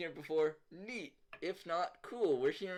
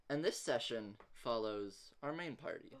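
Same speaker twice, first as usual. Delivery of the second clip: measured narration with thoughtful pauses; game master's scene setting; 5 semitones lower, 5 dB quieter than usual. Acted. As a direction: set the scene calmly, pausing between details.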